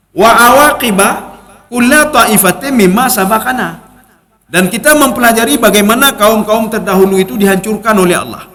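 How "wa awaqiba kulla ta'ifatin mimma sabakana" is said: Quranic recitation. Acted.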